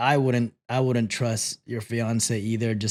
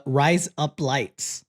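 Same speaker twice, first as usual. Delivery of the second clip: Australian accent; much slower than usual. Shown as a demonstration. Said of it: "If you wanna sound Australian".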